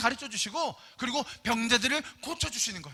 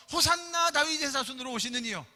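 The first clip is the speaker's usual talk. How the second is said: mildly raised acclaiming cry; imitated crowd shout. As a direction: lightly mimic a crowd hailing someone. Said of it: "사람들이 막 소리를 지르네".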